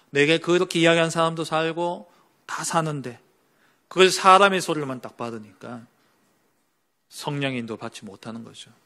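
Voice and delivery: ordinary delivery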